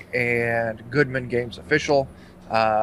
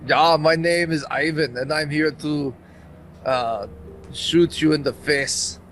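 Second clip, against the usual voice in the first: put-on half-hearted Austrian accent, slightly raised; Arnold's Austrian accent; 2 semitones higher than usual. Player trying out his robot character's new voice, shaky-skilled Austrian accent. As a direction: attempt an Austrian action-hero accent, unsure of it. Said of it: "let's hear your Austrian accent".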